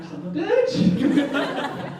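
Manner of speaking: slow, high drawn-out curse through laughter; hearing about free water while desperate, slow exasperated curse. Real, not acted. Frustrated reaction to water offer.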